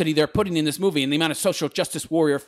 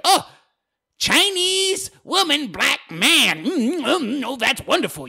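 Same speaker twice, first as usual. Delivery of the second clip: high, drawn-out fake delight; sarcastic singsong swooning over how wonderful it is; put-on marveling, pitch swooping high; mock gushing; 9 semitones higher than usual. Mocking diversity casting as virtue signaling.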